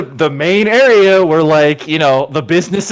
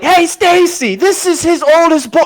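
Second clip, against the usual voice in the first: put-on chirpy girl; 12 semitones higher than usual. Strip club girl introduces him.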